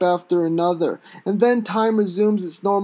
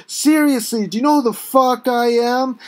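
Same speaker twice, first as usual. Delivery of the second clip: loud, higher, spitting fury; deranged shouting; 3 semitones higher, 3 dB louder than usual. Acted. Face on the asphalt, shouting up at the cop. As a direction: scream it with spit flying. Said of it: "I continue shouting".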